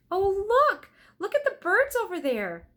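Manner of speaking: high, loud, thrilled calling out; excited. Acted. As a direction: point it out with delight. Annie excited spotting birds.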